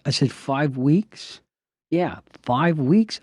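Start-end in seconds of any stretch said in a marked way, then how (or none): 0.3-1.4 sarcastic. Retold or imitated. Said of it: "I'm getting a little sarcastic here". 1.9-3.2 sarcastic. Retold or imitated. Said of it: "I'm getting a little sarcastic here".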